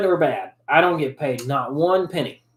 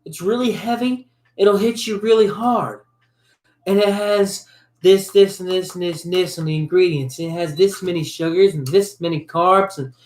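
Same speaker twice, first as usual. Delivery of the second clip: mock reviewer voice; 3 semitones higher than usual. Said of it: "and they're like".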